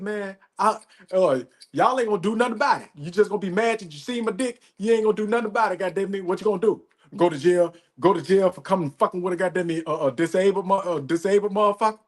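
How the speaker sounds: lightly voiced fast taunt; imitating Charleston White. Retelling Charleston White taunting angry dudes, fast cocky mock taunt. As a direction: rattle off the dare, cocky and quick. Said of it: "Charleston White said".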